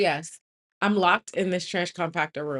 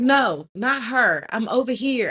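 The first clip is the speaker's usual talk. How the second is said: higher, insistent re-enacted call; 4 semitones higher, 3 dB louder than usual. Locked-in woman to confused passer-by, raised calling voice. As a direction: imitate redirecting someone from afar.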